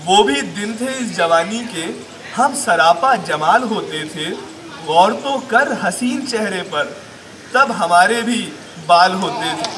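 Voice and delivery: measured, lilting Urdu verse recital; deliberate poetic delivery; mushaira recitation. Acted. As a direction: recite the couplet line by line, with pauses.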